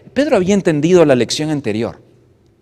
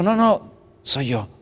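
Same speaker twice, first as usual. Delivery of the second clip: loud, high shout to calm them; reassuring shout, much louder and higher; calling out; 5 semitones higher, 6 dB louder, slower than usual. Acted. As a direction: yell over the wind. Jesús calling over the storm.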